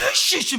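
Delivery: sharp imitated seething burst; mock angry hissed outburst; threatening "이씨". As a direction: mimic someone about to strike. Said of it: "막 때리려고 막".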